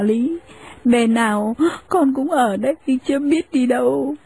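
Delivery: put-on young wife respectfully standing her ground; humble young wife. Daughter-in-law answers humbly.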